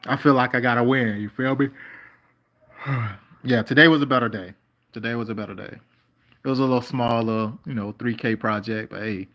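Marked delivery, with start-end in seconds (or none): 3.5-4.5 firm and louder, leaning into it; emphatic declaration. Real, not acted. Repeats a relieved remark. 4.9-5.8 softer, settled repeat to himself; quiet echo. Real, not acted.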